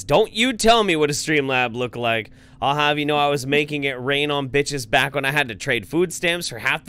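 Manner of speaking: playfully outraged rebuke; mock indignation. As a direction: read it as a pompous telling-off. Reads viewer's mock-indignant message aloud.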